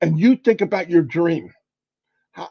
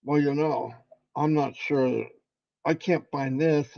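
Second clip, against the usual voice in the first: softer, lower mopey mumble; mock self-pity, softer and lower; mocking whiny quote; 5 semitones lower, 7 dB quieter than usual. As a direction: imitate a defeated complainer, dropping the voice. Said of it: "She's not sitting around going".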